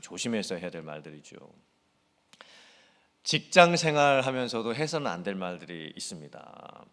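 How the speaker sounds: normal talking voice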